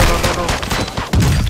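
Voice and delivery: slow, drawn-out, high pleading no; tense no no no. Real, not acted. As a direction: beg the moment not to go wrong. Tense end of the match.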